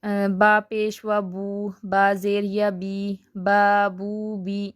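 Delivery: each syllable spelled out slowly; slow syllable drill. Shown as a demonstration. Teacher drilling students on syllables, slow and distinct. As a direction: sound out ba bu bi one by one. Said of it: "یہ اپنے قاعدے میں بھی پڑھے ہوں گے".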